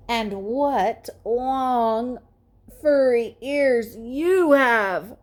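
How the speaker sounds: slow, drawn-out mock sweetness; slow monster pig. A narrator's reading. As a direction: tease it back slowly. Porkenstein's reply to wolf.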